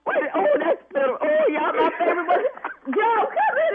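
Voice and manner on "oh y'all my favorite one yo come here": excited. Real, not acted. Excited after prank reveal.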